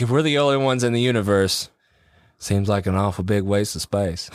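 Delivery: put-on a second, looser try at a Texas accent; mild Texas accent, trailing into a laugh; Matthew McConaughey. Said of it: "But he's like".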